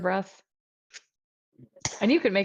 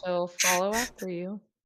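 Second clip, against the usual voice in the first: normal talking voice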